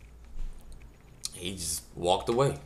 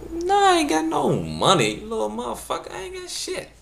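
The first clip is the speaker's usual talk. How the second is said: what I wanted to say. Retold or imitated. Comedian imagines snapping at a begging kid. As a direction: snap back at the begging kid. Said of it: "That's what I wanted to say".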